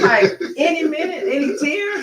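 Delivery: high, loud, pleading "any tears?". Retold or imitated. Wife retelling how she begged husband to cry, high and pleading. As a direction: coax him to cry, exasperated.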